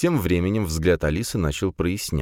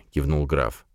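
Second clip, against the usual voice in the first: ordinary delivery, nothing marked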